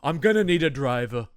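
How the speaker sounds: lightly voiced mummy villain, loud on Zoth; mock villain. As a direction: play the mummy haggling as a villain. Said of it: "he has a limo".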